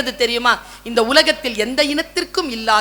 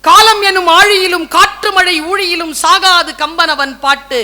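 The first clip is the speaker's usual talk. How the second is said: louder, ringing poetic recital; declaimed verse; 5 semitones higher, 7 dB louder than usual. Shown as a demonstration. Speaker re-recites the son's verse with relish, declaiming. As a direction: proclaim it to the whole hall. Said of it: "எப்படியா?".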